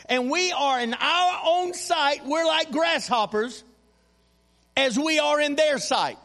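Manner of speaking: emphatic, sustained pulpit reading voice; scripture reading. Acted. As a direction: read the Bible story out to the congregation with preacherly weight. Reads scripture aloud to congregation.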